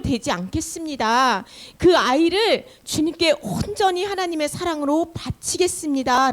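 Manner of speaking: lightly acted heartfelt petition, pitched a bit up; earnest prayer. Hannah praying to God for a son, earnest prayer. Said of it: "하나님 앞에 기도를 해요".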